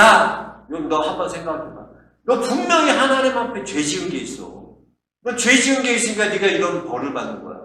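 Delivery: lightly voiced scolding friend; accusing friend. Friend telling Job to repent, mildly hammed-up scolding. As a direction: reproach him insistently, as a mock accuser. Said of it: "욕을 남발하는 거야".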